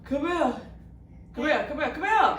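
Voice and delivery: calling out. Real, not acted. Calling the child over.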